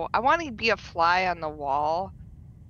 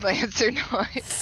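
game character noise; 4 semitones higher, much slower than usual. Acted.

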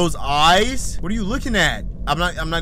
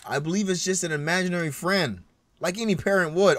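put-on country accent. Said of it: "I'm sorry for the country accent".

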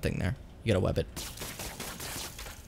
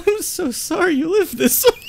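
high, slow, giggly fake apology; laughing mock sympathy; 3 dB louder than usual. Real, not acted. Friend pretending pity for tiny hands, laughing hard. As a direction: squeeze it out through laughter.

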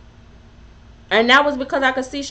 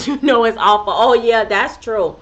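usual speaking voice

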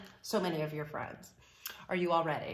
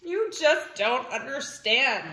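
slow, sulky pigeon; sulking; 3 semitones higher, 5 dB louder than usual. Acted. Pigeon feeling denied a puppy by readers, sulking. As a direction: drag it out in a sulk. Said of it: "This is called sulking".

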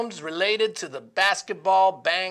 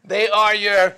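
punchline; 5 dB louder than usual. Acted. Joke punchline.

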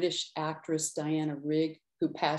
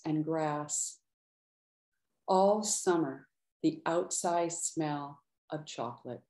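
measured, unhurried poetry reading; poem reading. Acted. Poet reading her chocolate poem to an audience, measured. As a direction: let each image land with small pauses.

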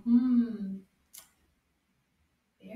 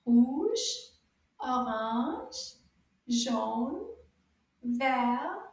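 colours called out a bit louder; 3 dB louder, much slower than usual. Shown as a demonstration. Teacher models repeating the colours in a loud voice. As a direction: say each colour out loud for the class. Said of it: "in a loud voice".

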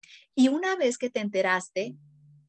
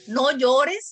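loud command; 6 dB louder than usual. Retold or imitated. Adult voice telling child.

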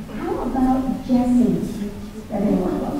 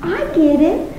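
higher, sing-song mock teacher; higher, pleased teacher voice; teacher having an insight; 5 semitones higher, slower than usual. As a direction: play the teacher's bright discovery. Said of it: "she said".

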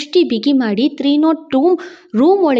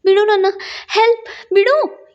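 high, urgent cries to let go; frightened plea; 6 semitones higher than usual. A narrator's reading. Woman struggling against her attacker, pleading in fright. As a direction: call for help in short high bursts.

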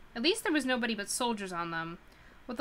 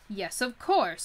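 firm, louder, insisting; defiant declaration; 5 dB louder, slower than usual. Acted. Sophie insisting to the witch, defiantly firm. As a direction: stand your ground against her. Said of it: "Sophie declared, trembling with terror and anger".

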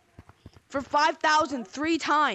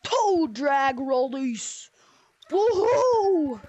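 drawn-out cheer; 3 dB louder, much slower than usual. Pretend. Catchphrase with cheer.

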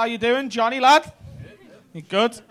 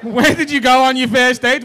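laughing, exasperated re-ask; laughing impatience; exasperated repeat; 2 semitones higher, 5 dB louder than usual. Real, not acted. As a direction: ask again, done with the long answer. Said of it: "you just took a minute and a half".

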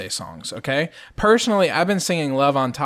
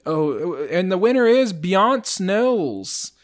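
arrogant announcer; 5 semitones higher, 3 dB louder, slower than usual. Retold or imitated. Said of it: "the arrogance in that announcer's".

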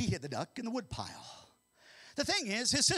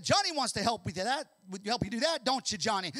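teasing sister; 4 semitones higher, 6 dB louder than usual. Acted. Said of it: "Sally said".

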